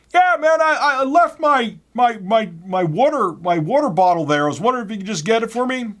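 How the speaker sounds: high, loud goofy dude voice; mock goofy caller. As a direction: ham up the loudmouth asking a favor.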